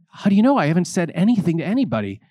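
high, loud astonished cry; shocked. Retold or imitated. The young man stunned that his pastor already knew, shocked. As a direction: caught completely off guard. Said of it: "I said".

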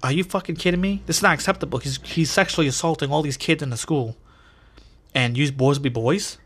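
a mock-furious mother telling off the principal; outraged mom. Mom yells at the principal, mock outrage. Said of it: "my mom says".

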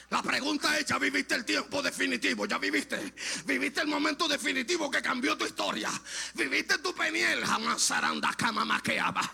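impassioned questions to the congregation; fervent preaching. Acted. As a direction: press each question with preacher's fervor. Preaches questions, speaks in tongues.

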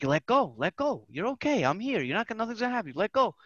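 put-on light, soft reassurance to a frightened kid; coaxing dad. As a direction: imitate a parent gently talking a child down. Dad coaxing scared daughter to drop.

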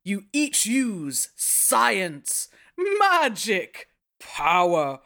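slow, grand storyteller voice; booming narrative voice. Acted. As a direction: draw each word out like an epic narrator. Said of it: "Shall I do a booming narrative voice?".

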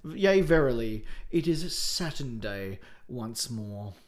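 put-on slow, grand old-world announcement; stately mock-Elizabethan delivery; mock-archaic proclamation. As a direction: proclaim it like antique scripture, drawn out. Mock-archaic podcast opening.

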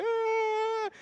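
high-pitched, loud mock wail; imitated crying wail. Helper crying beside the thrown bin, imitated wail. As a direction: wail like someone in tears, hammed-up. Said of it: "his helper at the side was crying".

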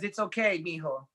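gently imitating his mom, soft and calm. Mom calmly comforting her son over the prison phone, soft. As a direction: soothe him quietly, the way a mother would. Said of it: "my mom very calmly says".

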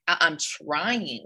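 drawn-out, retold exasperated protest; slow, slightly fed-up insistence; mildly irritated. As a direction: stretch it out in mild irritation. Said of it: "that's why I'm getting a little irritated".

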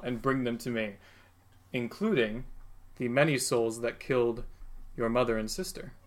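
a lightly voiced Satan binding his new servant. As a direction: lay down the command like a dark lord. Satan declares his will.

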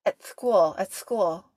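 "school" with the k hitting the front of the palate; imitated speech quirk. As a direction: mimic her not-quite-lisp on "school". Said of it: "hits right the front of her palate".

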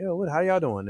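a hint of a lazy comic hyping the room; hyped crowd-work comic. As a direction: lightly play a comic working the crowd. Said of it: "they trying to be like".

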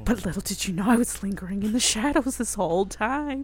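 hammed-up gloating baddie; self-excited villain. Period depression announcing its return to her friend, gloating mock villain. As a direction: relish the big reveal like a cartoon villain. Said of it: "Too self-excited".

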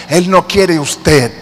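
"no" stressed, slow; slow, emphatic "no". Real, not acted. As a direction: lean hard on "no". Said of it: "escúchame".

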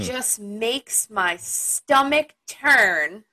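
dramatic reading. Pretend. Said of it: "In your best thespian voice".

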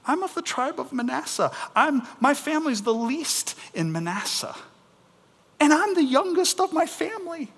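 high-pitched, protesting little voice; incredulous Gideon. Acted. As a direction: plead your smallness in comic disbelief. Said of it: "And Gideon goes".

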